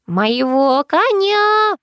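granny howling mid-fight; wailing. A narrator's reading. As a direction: howl it, then shriek for police. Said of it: "вопила первая".

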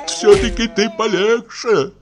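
high, slowish whimpering plea; high plaintive old voice; tearful plea. Acted. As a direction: whine it like a frightened old man. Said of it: "проговорил плачущим голосом Почечуев".

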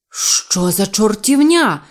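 loud, drawn-out indignant bellow; загорлав. A narrator's reading. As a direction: bellow it slowly in outrage. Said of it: "загорлав сер Чарльз". (обурений гучний крик)

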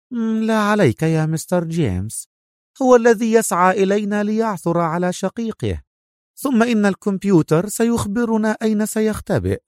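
smiling reassurance. Acted. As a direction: soothe the impatient boss. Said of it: "ابتسم البروفيسور وقال". (طمأنة مبتسمة بصوت مرتفع)

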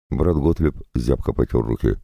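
plain reading voice

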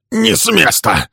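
high, loud barked order; angry command. A narrator's reading. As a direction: stop him dead with a command. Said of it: "приказал он сердито".

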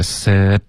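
"sit" cut off by the tongue tip on t; crisp final stop. Shown as a demonstration. Teacher showing a student, tongue-stopped "sit". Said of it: "干脆的停顿，一定要动舌尖".

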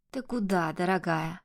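sugary, menacing sweetness; oily mock-tender question; unctuous. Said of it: "Елейно улыбнулся Марк". (елейно, с угрозой)

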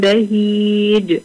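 بهيج stretched out slowly after زوج with a nasal ghunna; teacher modeling tanween before ب; slow tajweed example. Shown as a demonstration. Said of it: "زوج".

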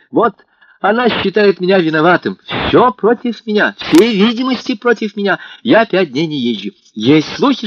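put-on rapturous young man vowing innocence; excited young lover. A narrator's reading. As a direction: pour out the excuses breathlessly. Alyosha's long excited speech.

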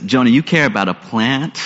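soft and low, fading almost to a hush, slowing at the end; quiet, tender appeal from God to Jonah; tender pleading God. Retold or imitated. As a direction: plead gently, letting the voice drop away. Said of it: "God says".

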